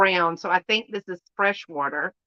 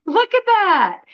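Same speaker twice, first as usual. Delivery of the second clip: higher and louder delight; delighted squeal; 10 semitones higher, 5 dB louder than usual. Real, not acted. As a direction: show it off gleefully. Delighted by armadillo.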